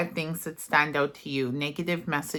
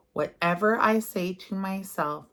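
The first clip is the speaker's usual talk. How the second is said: whisper. Shown as a demonstration. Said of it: "And say this affirmation".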